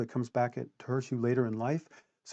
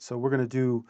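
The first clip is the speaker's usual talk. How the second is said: husky, catching throat; frog in throat. Real, not acted. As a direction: voice snagging on a dry throat. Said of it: "I got a little frog in my throat".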